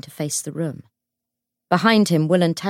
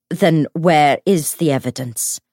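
loud, forceful challenge; angry demand; 7 dB louder than usual. A narrator's reading. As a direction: demand proof with some anger. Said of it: "demanded Will".

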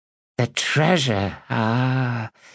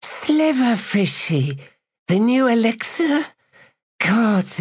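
ecstatic woman; 12 semitones higher than usual. Acted.

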